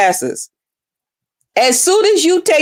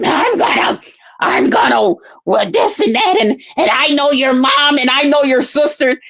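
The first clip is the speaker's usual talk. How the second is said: mocking a rival. Imitating the panel rival's threats, blustery mock voice. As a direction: parody her stammering threats. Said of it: "making up goddamn names".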